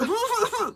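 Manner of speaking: high, forced fake cough; warning cough. Signalling coworker still cleaning the window, pointed cough. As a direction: cough pointedly to get her attention. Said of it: "I didn't cough loud enough".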